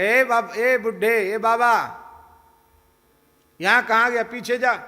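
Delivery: loud, high, harsh bus conductor shout; rough conductor shouting at a villager in a crowded bus; conductor yelling. Retold or imitated. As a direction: bark the old man to the back.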